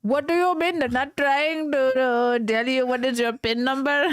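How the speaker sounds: put-on Indian call-center voice; hammed-up Indian accent, scam caller fishing for details; mock Indian phone scammer; stereotypical Indian accent. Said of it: "not doing the Indian voice anymore".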